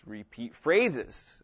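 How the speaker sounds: "Repeat phrases" drawn out slowly, each word weighed; slow deliberate repeat. Shown as a demonstration. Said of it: "pronounce it slowly".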